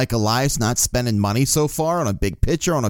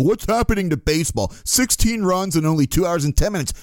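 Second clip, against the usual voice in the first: mock complaint, pitched a bit higher; imitated moaning; 4 semitones higher than usual. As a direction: imitate fans griping, higher than your own talk. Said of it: "people were bitching and moaning".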